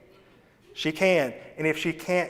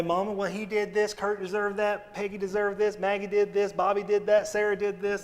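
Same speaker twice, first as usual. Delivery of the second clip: imitated excuse-making kid; 4 semitones higher than usual. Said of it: "Don't go in there and say".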